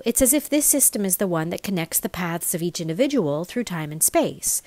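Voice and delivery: ordinary delivery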